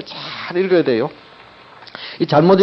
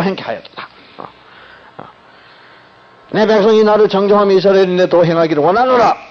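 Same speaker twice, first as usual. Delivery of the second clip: harsh wrong reading; 4 dB louder than usual. Shown as a demonstration. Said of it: "그렇지 않으면은 이거 아주 고약합니다".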